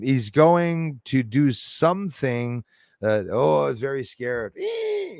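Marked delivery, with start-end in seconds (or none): 4.6-5.2 very high, thin "eee"; sustained high-pitched mock squeal; imitated squeal. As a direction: squeal mimicking the man in the video. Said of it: "He kept going like that".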